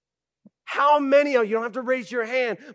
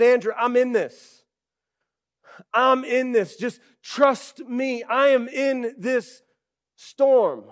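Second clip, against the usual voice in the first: gentle reassurance; 3 semitones higher than usual. Retold or imitated. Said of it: "He said".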